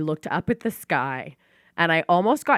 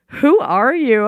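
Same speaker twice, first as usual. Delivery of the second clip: imitating her; 7 semitones higher, 9 dB louder, slower than usual. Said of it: "She was like".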